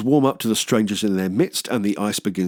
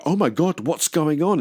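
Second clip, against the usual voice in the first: mock zombie-movie shock; 8 semitones higher than usual. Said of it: "they go".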